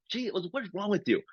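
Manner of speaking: retold exasperation. Retold rant at hecklers.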